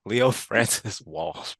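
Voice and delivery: slow, lightly put-on Irish accent; a touch of fake Irish; mock Irish accent. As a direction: imitate a bad Irish brogue. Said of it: "With a very, very bad Irish accent".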